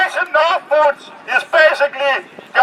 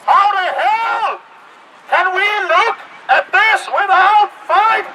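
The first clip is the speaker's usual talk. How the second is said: shouting; 5 semitones higher than usual. Real, not acted. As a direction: yell it out in anger. Protester shouting.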